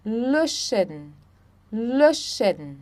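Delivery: Löschen with a rounded ö, LÖ-schen; German pronunciation. Shown as a demonstration. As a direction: model Löschen with pursed lips. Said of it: "Vocês vão fazer um biquinho".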